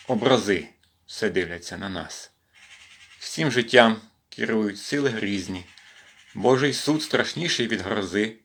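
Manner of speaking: measured verse reading with pauses; deliberate poetry delivery; poem recitation. Acted. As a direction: recite line by line, letting the pitch rise and fall. Recites a poem about stress.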